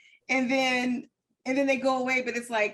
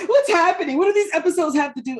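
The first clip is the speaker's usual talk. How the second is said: mocking clueless viewers; 7 semitones higher, 7 dB louder than usual. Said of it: "people like".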